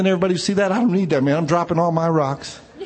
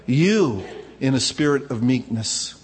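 humble and slow; 4 semitones lower than usual. Shown as a demonstration. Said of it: "That means humbly".

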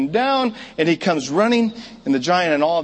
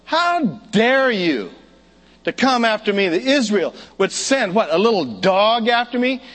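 dopey cartoon bellow; 5 semitones higher, 3 dB louder than usual. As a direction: bellow it like a dumb cartoon giant. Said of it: "And the giant says".

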